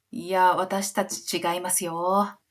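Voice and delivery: slow, drawn-out mock denial; queenly denial. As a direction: imitate a queen stretching out her objection. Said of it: "文句言わせないみたいなクイーン".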